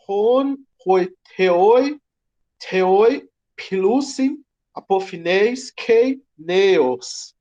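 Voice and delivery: Greek recited slowly, each syllable drawn out; "hoiteoi filusin apofneiskei neos" sounded out slowly with rising ends; Greek read aloud. Shown as a demonstration. Teacher reading Greek proverb to class, slow and careful. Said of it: "ele diz".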